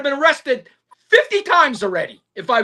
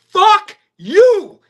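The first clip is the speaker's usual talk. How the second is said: higher, louder angry retort; 5 semitones higher, 5 dB louder than usual. Real, not acted. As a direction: spit it at the UK. Second repeat, angrier.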